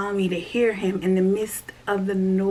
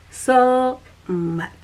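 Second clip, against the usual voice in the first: whispered so much; 5 semitones higher, 7 dB louder than usual. Shown as a demonstration. Speaker whispers her emphasis back to viewers. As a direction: hush it to a near-silent whisper.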